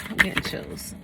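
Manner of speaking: whispered, spooked by the card; awed whisper. Real, not acted. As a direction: breathe it out in a hushed whisper.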